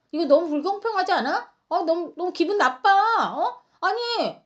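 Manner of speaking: jealous neighbour protests that the kimchi was shared unfairly, whiny and indignant; whiny mock complaint. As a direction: play the jealous one demanding equal kimchi. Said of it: "막 이렇게 따지는 사람이".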